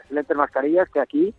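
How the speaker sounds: talking through a face mask; muffled voice behind a mask. Real, not acted. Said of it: "con esta voz filtrada por estas, eh, excelentes mascarillas".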